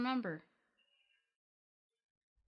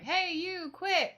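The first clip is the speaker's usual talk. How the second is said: mock yell; 11 semitones higher, slower than usual. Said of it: "I'm like".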